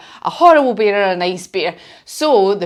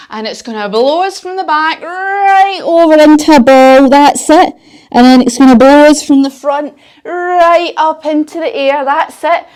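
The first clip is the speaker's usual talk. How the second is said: excited storytelling; 3 semitones higher, 7 dB louder than usual. Pretend. Pretend wind blowing children over.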